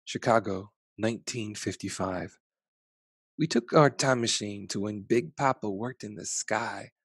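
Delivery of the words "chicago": ordinary delivery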